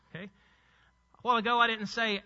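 usual speaking voice

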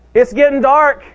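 rising sermon fervour; preaching loud. Acted. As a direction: push it out to the congregation with force. Preacher building intensity.

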